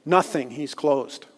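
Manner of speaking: slow, quiet deadpan reply; droll and flat. Retold or imitated. Shaman deadpans to the interpreter, slow and flat. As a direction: say it flat, as if nothing matters. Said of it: "completely droll and flat".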